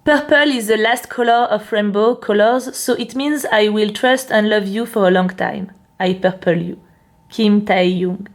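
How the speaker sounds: slow English read with a heavy French accent. Real, not acted. French vlogger reading a fan's English quote, French accent. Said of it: "Attention, je vais lire en anglais, préparez-vous, parce que mon accent est".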